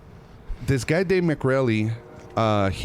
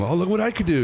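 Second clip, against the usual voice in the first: put-on excited kid; 8 semitones higher than usual. Kid showing off to mom.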